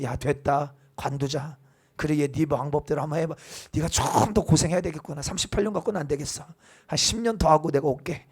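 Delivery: quiet, mock-weary brush-off; a hint of fed-up shrugging off; exasperated giving up. Pastor playing an impatient Jesus, lightly weary. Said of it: "여러분들이 예수님 같으면 어떻게 하겠습니까?".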